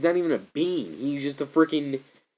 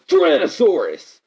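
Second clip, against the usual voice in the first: drawn-out hammed-up yell, higher and louder; mock TV shout; 8 semitones higher, 9 dB louder than usual. Mimicking the old show's Zord call, slow hammed-up shout. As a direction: bellow it slowly like a cheesy TV hero. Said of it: "the original T V show where, like".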